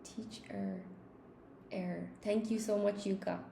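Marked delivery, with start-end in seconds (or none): 0.0-0.8 Teacher with a soft uh at the end; Teacher, the final er said as a short schwa. Shown as a demonstration. Teacher demonstrating the British schwa in Teacher. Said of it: "schwa in teacher at the end". 1.7-2.1 a short soft uh on its own; Er said as a bare schwa; schwa sound. Shown as a demonstration. Teacher isolating the schwa sound for students. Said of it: "schwa at the end".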